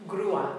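"grúa" as GROO-a, two syllables; careful two-beat "grúa"; accent on U. Shown as a demonstration. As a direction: hold a stressed u in "grúa", then a separate a. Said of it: "we've got the accent on the U".

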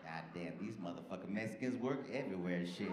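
low-pitched character aside; a lightly acted low voice; imitated audience member. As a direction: drop low, as an onlooker commenting. Voices black woman in audience reacting.

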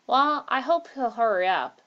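mild acted yawn on the words. A narrator's reading. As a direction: stretch the words as if yawning. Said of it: "said Malcolm, yawning".

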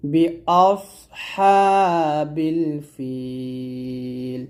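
বিআসহাবিল with a thick, heavy স and slow; heavy sad. Shown as a demonstration. Teacher showing students the heavy sad in the verse. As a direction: recite বিআসহাবিল ফিল slowly, sad made heavy. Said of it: "সদটা অবশ্যই এখানে মোটা করবেন".

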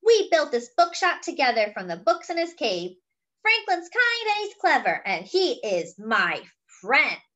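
fierce Luna. Acted. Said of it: "a fierce look in her eyes".

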